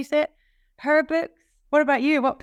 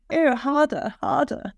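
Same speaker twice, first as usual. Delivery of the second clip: put-on posh accent; 3 semitones higher than usual. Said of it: "So I had to do a posh accent".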